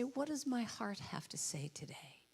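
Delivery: soft inward whisper to yourself; whispered question. Shown as a demonstration. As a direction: ask your heart in a hush. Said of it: "I just say".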